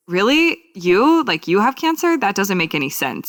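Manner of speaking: imitating a shocked acquaintance; mock disbelief. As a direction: act out their baffled surprise. Retold disbelieving reaction.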